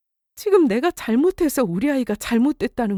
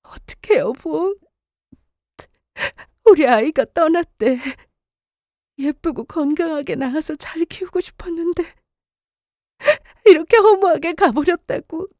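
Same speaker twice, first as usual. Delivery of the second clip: tearful, rising into a high plea; pleading through grief, voice climbing; broken-hearted wife begging for comfort; grief-stricken wife; 4 semitones higher than usual. Acted. Wife grieving lost baby.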